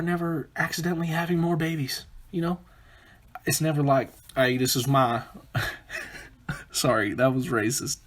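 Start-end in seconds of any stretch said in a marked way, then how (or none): 4.4-5.2 lightly put-on southern accent. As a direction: slip briefly into a southern accent. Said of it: "I went to a southern accent".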